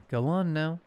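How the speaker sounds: eager, lifted push to eat; urging with bright excitement; excited. A narrator's reading. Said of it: "she said excitedly".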